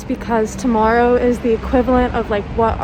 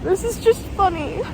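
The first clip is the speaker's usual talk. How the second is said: much higher, sobbing voice; real teary sobbing telling; crying; 8 semitones higher than usual. Real, not acted. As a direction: tell it while really crying. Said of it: "I don't know how to stop".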